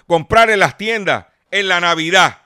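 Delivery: short of breath, wheezy; breathless before a coughing fit. Real, not acted. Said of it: "me ahogo". (voz ahogada, sin aire)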